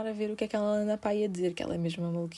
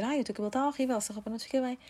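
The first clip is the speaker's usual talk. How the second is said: mocking quote; 4 semitones higher, faster than usual. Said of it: "A dizer".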